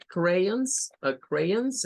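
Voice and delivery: crayons with a final s sound; crayons, adding the s; demonstrating plural crayons. Shown as a demonstration. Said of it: "agregarle acá una S".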